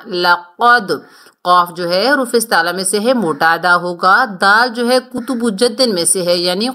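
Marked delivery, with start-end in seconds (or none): 0.0-0.9 لقد with a heavy ق and a bounced د; correct qalqalah. Shown as a demonstration. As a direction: say لقد with the ق full-mouthed and the د echoing. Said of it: "لقد ایسے نہیں پڑھنا". (لقد میں ق موٹا اور د قلقلہ کے ساتھ)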